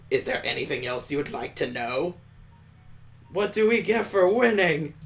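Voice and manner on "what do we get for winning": higher and louder, eager; eager shout. Acted. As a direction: call out to the teacher all at once. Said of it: "the class screams out in unison".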